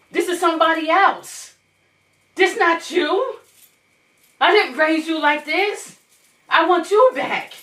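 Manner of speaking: retold motherly plea. Mother retelling her talk to her changed son, imploring.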